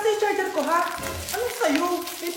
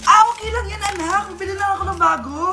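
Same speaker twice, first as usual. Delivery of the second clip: forced calm; 7 dB louder than usual. Acted. Mother forcing calm after anger.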